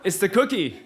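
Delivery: excited realization. Retold or imitated. Realizing she was drugged.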